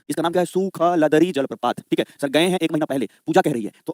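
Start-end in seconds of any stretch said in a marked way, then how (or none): 0.4-1.8 सुखलदरी stretched slowly, syllable by syllable; drawn-out name. Shown as a demonstration. Teacher showing the class a funny waterfall name, drawn out slowly. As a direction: draw out सुखलदरी slowly, part by part.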